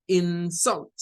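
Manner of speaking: light IN, forceful SULT in "insult"; stress on second syllable. Shown as a demonstration. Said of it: "Entonces diríamos algo como".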